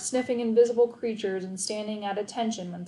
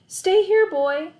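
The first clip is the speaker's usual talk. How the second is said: firm command; 10 semitones higher, 7 dB louder, slower than usual. A narrator's reading. Telling hurt dog to stay.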